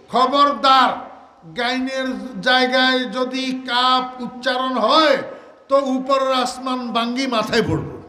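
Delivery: loud drawn-out preacher's warning; stern warning. Real, not acted. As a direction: raise the voice and warn sternly. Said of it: "stern warning".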